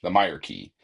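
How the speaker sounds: "Meyer" said as MY-er; "Meyer" stressed, MY-er; Meyer pronunciation. Shown as a demonstration. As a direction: repeat "Meyer" as MY-er. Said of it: "is how we're pronouncing it".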